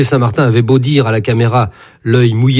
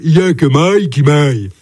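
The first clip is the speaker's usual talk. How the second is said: mooing; 3 semitones higher than usual. Retold or imitated. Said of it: "meugle-t-il".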